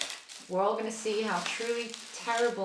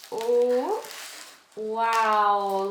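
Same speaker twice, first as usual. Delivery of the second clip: louder, awed oh wow; amazed; 2 semitones higher, 7 dB louder than usual. Real, not acted. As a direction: caught off guard by the size. Surprised by big leaves.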